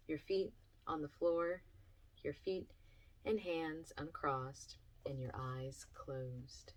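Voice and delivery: slow, spaced-out grounding instructions; guided meditation. Acted. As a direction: guide listeners step by step, leaving pauses. Reads out grounding meditation steps.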